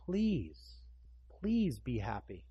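drawn-out, gentle plea; pleading. Acted. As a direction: plead with them, stretching out the words. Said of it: "came out and pleaded with him".

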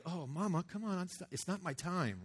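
a mock-whiny Jesus brushing off mom; pleading son.

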